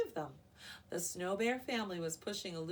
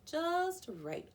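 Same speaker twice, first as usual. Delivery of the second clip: murmured; 11 semitones higher, 6 dB louder than usual. A narrator's reading. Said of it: "Aluki murmured".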